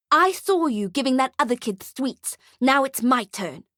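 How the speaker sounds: put-on high, accusing child voice; high-pitched indignant brat; bratty little girl, insistent. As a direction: complain like a cheated kid.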